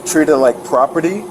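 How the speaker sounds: words dragging, thick with drink. Real, not acted. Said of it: "slurred speech".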